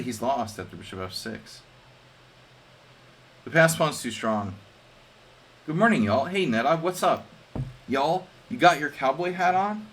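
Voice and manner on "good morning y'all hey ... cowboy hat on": loud, high, playful cowboy hello; mock cowboy greeting. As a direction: hail him like a rodeo buddy.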